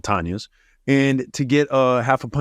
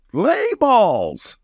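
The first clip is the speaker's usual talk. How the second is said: hyped bro call; 9 semitones higher than usual. Pretend. Mock bro shout.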